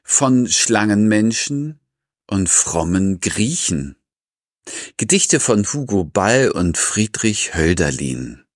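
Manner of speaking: measured intro read with deliberate pauses; podcast title announcement. Acted. Host opening the Seelenfutter episode on two poets, measured announcement. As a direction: announce each title phrase separately.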